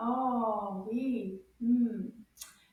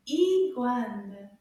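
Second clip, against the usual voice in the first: Iguane slowly, both syllables loud and clear; slower take; 2 semitones lower, 6 dB louder than usual. Shown as a demonstration. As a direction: draw out Iguane for learners to copy. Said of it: "a little bit faster".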